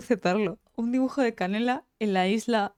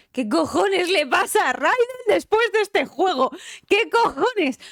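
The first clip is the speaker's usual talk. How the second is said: loud, much higher disbelieving rant; exasperated outburst; 9 semitones higher, 5 dB louder, slower than usual. Real, not acted. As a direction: blow up at the plot twist. Estalla por la trama de Raiden. (estallido exasperado, agudo y fuerte)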